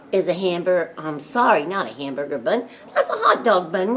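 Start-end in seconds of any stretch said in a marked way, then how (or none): 2.9-3.9 amused self-correction with a laugh; laughing at herself. Real, not acted. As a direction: laugh through the fix. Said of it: "What's wrong with me?".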